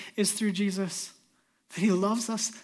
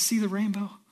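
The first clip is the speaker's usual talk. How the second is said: a tender divine voice, lightly voiced, hushed at the end; voice of a loving God. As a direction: speak God's promise gently, almost whispered. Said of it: "But the promise of God is".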